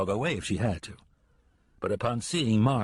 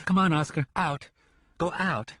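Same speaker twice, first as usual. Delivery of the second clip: commanding the dog; 7 semitones higher than usual. Acted. Lenora orders the big dog out into the dark, calling.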